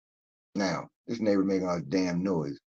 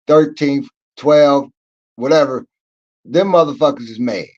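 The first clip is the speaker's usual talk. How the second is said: loud, rising rant through the floors; hammed-up loud rant about the floors; building rant; 3 semitones higher, 9 dB louder than usual. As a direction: shout each floor louder. Ranting about every floor being mad.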